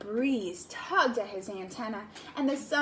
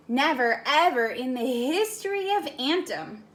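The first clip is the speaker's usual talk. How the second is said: worried friend, emphatic; 4 dB louder than usual. Acted. Floyd voiced in story.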